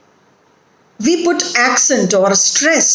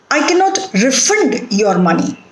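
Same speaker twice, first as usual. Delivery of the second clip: refund as re-FUND, the verb; weak re, strong FUND in refund; stress on second syllable; 2 semitones higher than usual. Shown as a demonstration. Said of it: "the stress is on the second syllable".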